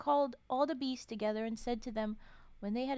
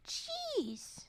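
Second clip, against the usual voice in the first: high breathless whispered jeez; whispered shock; 4 dB quieter than usual. Real, not acted. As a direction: gasp it out in a whisper. Gasp at the tale.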